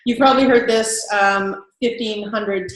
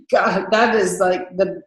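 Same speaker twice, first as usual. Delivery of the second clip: snooty sales rep; 3 semitones lower than usual. Shown as a demonstration. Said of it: "sometimes we get that".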